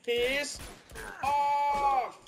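high, loud, furious yell at the screen. Real, not acted. Gamer yelling at the game in fury. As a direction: let the rage burst out at the game.

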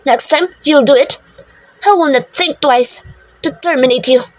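warning tone. Acted. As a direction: threaten calmly but firmly. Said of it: "I said in a warning tone".

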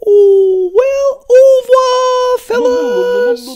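loud cheery farewell shout; calling out goodbye. Acted. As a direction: call it out across the room as you leave.

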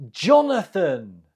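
"Jonathan" as JON-uh-thun, weight up front; stress on first syllable. Shown as a demonstration. Quiz teacher repeats the answer for learners, "Jonathan" stressed on first syllable. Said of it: "The stress is on the first syllable".

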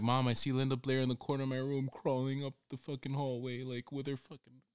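put-on scared kid voice. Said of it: "I'm like".

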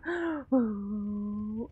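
gasp, then groan in dread; frightened moan. Real, not acted. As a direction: gasp into a low drawn-out moan. Frightened by horror game.

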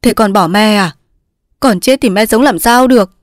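pleading, rising in distress; mother upset, pitch climbing; tearful mother. Acted. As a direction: implore your daughter through tears. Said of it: "Cụ Án bưng mặt khóc".

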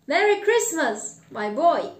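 loud greeting, high then dropping; joyful greeting. Acted. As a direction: call out festive wishes heartily. Scrooge joyfully greets the boy.

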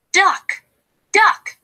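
calling out. Acted. Goose calls duck.

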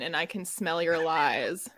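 lightly played red priestess sniffing out lies; red woman. Cohost accusing the fake author, as a slow, lightly played red priestess. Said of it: "I think I'm the red woman".

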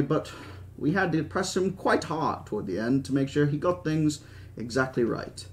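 lightly acted British old boss; a touch of airy British dismissal; Hammond. Park owner excusing his programmer, lightly voiced British old man.

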